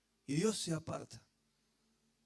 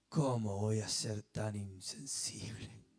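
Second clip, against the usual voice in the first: tender Jesus; 8 semitones lower, 5 dB quieter, slower than usual. Acted. Jesus voiced by preacher.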